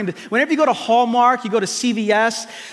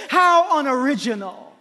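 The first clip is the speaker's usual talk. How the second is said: mock disdain; 6 semitones higher than usual. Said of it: "God doesn't say".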